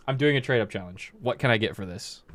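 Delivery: flat, blunt "I'm doing a trade-up challenge" at normal pitch; rude kid. Retold or imitated. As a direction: say it curtly like an entitled kid. Rude typical kid contrasted.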